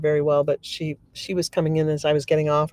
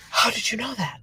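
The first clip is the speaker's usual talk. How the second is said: mildly astonished, higher-pitched quote; freaked out; 5 semitones higher, 4 dB quieter than usual. Acted. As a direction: imitate a stunned client asking. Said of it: "she was kind of freaked out".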